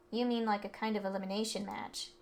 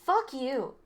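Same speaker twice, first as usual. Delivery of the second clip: angry; 3 semitones higher, 5 dB louder than usual. Acted. Delinquent cursing at the rich kid, angry outburst. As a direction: spit it in his face.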